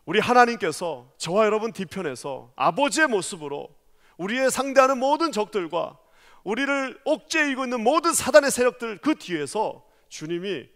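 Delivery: ordinary delivery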